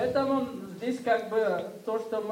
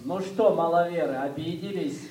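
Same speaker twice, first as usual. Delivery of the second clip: louder, teasing jab at the congregation; teasing call-out; 2 semitones lower, 4 dB louder than usual. Retold or imitated. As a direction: tease them for taking offence. Guest teases the offended congregation. (громко, с насмешкой)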